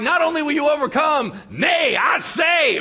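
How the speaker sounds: loud, high hammed-up archaic preacher; mock Old English. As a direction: ham up the old-timey nay, I say. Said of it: "did you go Old English on me".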